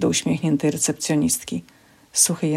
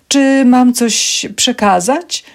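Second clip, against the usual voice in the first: high, loud, drawn-out query; pointed question; 7 semitones higher, 7 dB louder, much slower than usual. Acted. Receptionist with raised brow offers to take a message, pointed question. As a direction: ask slowly with a rising lilt.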